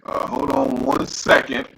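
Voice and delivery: robotic, distorted mic voice. Real, not acted. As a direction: sound like a glitchy robotic mic. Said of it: "you sound a little bit robotic there".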